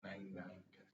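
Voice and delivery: soft whisper test word; whisper in left ear. Shown as a demonstration. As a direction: breathe the number into the ear. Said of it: "I'm gonna whisper".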